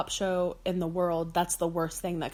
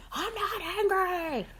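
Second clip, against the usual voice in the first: mock angry denial; 11 semitones higher, slower than usual. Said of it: "It's that thing, like".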